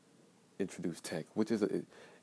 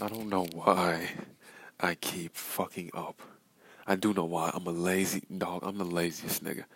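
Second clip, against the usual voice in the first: angry self-rebuke; 5 dB louder than usual. Real, not acted. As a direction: yell at yourself for being lazy. Venting anger at himself.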